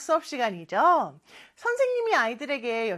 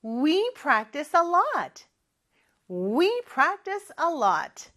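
loud voice; 3 semitones higher, much slower than usual. Shown as a demonstration. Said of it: "큰 목소리로 해볼까요".

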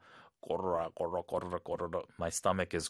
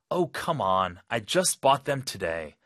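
frustrated customer; 4 dB louder, much slower than usual. Acted. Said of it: "거절당할 때".

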